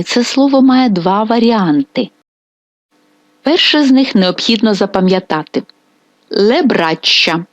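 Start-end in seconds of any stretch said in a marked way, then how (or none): 6.3-7.4 Le braccia said slowly, stress on le; careful teacher demo of Le braccia; slow, clear plural form; slow Italian model. Shown as a demonstration. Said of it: "означений артикль жіночого роду".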